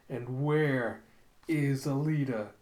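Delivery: slow, measured demand without shouting; menacing question. Retold or imitated. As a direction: ask it word by word, held back. Villain's demand repeated, retold.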